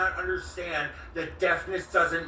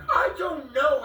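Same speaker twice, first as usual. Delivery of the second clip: laughing; 11 semitones higher, 4 dB louder than usual. Real, not acted. Breaks up mid-explanation.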